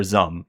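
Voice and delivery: "Zum" said as one syllable; studio name as pronounced. Retold or imitated. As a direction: repeat "Zum" as a single syllable, as it was told. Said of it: "that's how they said it to me".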